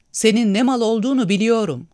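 high, loud angry accusation. A narrator's reading. Girl turning back to the man who drove them out, angry outburst. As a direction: spit it at him in anger. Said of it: "dedi öfkeyle".

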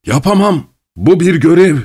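high-pitched, insistent protest. A narrator's reading. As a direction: refuse firmly, pitched well up.

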